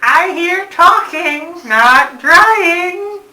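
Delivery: high, loud, slow yell; scolding from another room. Pretend. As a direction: holler a singled-out warning, high and drawn out.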